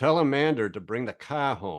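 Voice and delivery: East Coast accent, r dropped from "car", r added to name. Showing how the East Coast adds and drops R: East Coast accent with R drop. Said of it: "this is what it sounds like on the East Coast with an R drop".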